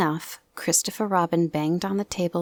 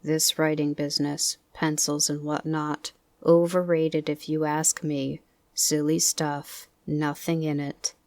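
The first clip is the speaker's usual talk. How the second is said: Eeyore muttering to himself. Acted. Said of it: "saying to himself".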